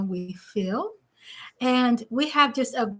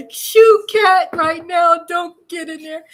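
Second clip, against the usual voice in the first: raised, higher-pitched shooing; scolding the cat; 5 semitones higher, 7 dB louder, slower than usual. Real, not acted. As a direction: call out sharply to shoo a cat.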